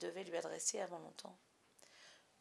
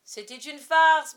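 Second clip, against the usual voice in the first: slow, much louder bawl; 6 semitones higher, 18 dB louder, slower than usual. A narrator's reading. Father bawling at his wife, loud and slow. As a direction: bellow the excuse defensively. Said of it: "brailla-t-il".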